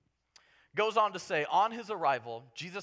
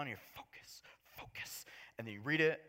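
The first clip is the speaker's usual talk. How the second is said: whisper. Pretend. Mock focused reading.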